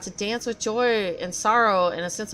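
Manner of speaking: a lightly voiced, bitter old craftsman muttering to himself; grumbling sea craftsman. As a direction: play a self-pitying artisan sulking on the ocean floor. NPC craftsman line.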